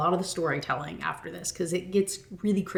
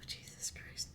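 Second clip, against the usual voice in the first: whispered, slow, under breath; muttered disbelief; 20 dB quieter than usual. Real, not acted. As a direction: whisper it to yourself, appalled. Reacting to creepy line.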